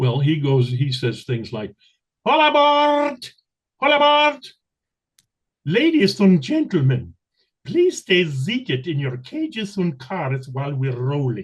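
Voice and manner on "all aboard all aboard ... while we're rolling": showy circus ringmaster announcer voice, high pitch. Describing what the ringmaster character says, the speaker performs in a circus ringmaster voice. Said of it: "I'm the ringmaster on the uh, uh".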